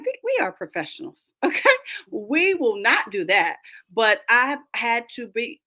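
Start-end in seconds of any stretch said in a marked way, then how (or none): 0.0-3.6 mock-stern reprimand to unruly adults; stern professional scolding. Scolding cursing colleagues in meeting.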